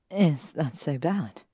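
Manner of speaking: slow, murmured teasing; muttered between kisses. Acted. Hermione kissing Draco, slow murmured tease. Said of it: "muttered between kisses".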